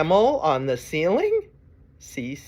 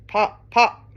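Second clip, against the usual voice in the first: loud, high short pops; cork popping; 6 semitones higher, 6 dB louder than usual. Acted. Reader reviewing the cork with children, popping sounds. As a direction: pop like a cork. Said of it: "He can sound like a cork".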